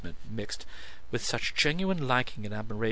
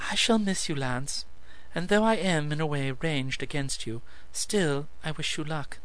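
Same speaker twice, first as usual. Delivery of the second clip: a lightly raised, gracious lady's voice; Lilith, fond farewell; 5 semitones higher than usual. Acted. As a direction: wish him luck while standing against him. Lilith bids Lance farewell.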